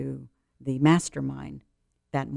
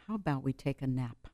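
put-on soft to her child; 4 dB quieter than usual. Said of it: "I say".

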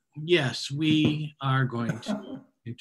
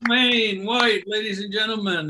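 big host shout of the name; hype shout; 11 semitones higher, 14 dB louder, slower than usual. Real, not acted. Host calling out the comic's name, loud and hyped. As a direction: sell the name to the room. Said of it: "host hyping the comic".

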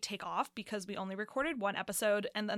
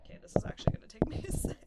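fast, breathy, strained whisper; faster than usual. Real, not acted. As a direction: whisper while struggling with it. Struggling with broken mic stand.

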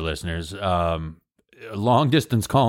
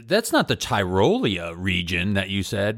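doubtful listener. Retold or imitated. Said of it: "Austrian accent".

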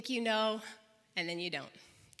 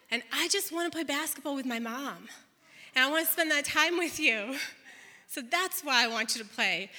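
thoughtful son. Retold or imitated. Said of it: "He said it like this".

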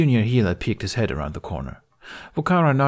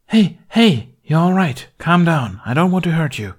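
urgent, high, loud calming; rattled off; 9 semitones higher, 6 dB louder than usual. A narrator's reading. Healer to a panicking man, high urgent calming. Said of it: "she rattled off".

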